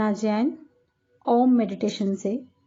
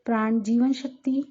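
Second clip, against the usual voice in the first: calm meditation guide, long pauses between phrases; guided meditation; 3 dB quieter than usual. Acted. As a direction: guide them gently inward, unhurried. (ध्यान कराती शांत आवाज़, ठहर-ठहर कर)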